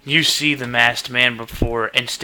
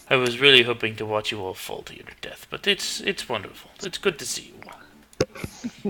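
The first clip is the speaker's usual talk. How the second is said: sarcastic; 4 dB quieter than usual. Acted. Dixon's sarcastic greeting.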